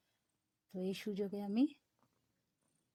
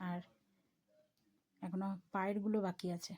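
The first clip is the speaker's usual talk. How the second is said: whispering; 2 semitones lower, 4 dB quieter than usual. Real, not acted. Baby asleep, mother whispering.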